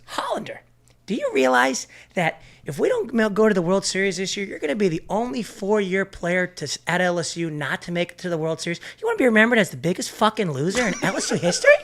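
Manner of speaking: high, loud, speeding coach tirade; furious coach. Retold or imitated. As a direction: shame the senior like a raging coach. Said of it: "He goes".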